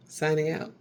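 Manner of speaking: lightly voiced anchor signing off; a hint of news anchor; mock newscaster sign-off. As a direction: close the broadcast like a TV anchor. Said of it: "newscasters don't do that".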